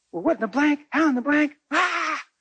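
high, startled woman's voice; shocked woman. Retold or imitated. Woman stunned at the name, high and startled. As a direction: rise high in disbelief.

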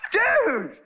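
high, drawn-out mock exasperation; comically pleading with a clueless buddy; exasperated urging. Imagined urging of eavesdropper on plane.

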